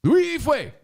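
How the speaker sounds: high, loud mock-Asian accent; Asian emphasis. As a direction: belt the name in a hammed-up Asian accent. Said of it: "I'm just putting the Asian emphasis on it".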